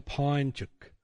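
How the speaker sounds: PINECHUK said as two syllables, "pine-chuk"; imitated slip on "Pinechuk"; child's mispronunciation. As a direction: say "Pinechuk" run together, imitating a child's garbled word. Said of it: "she was going".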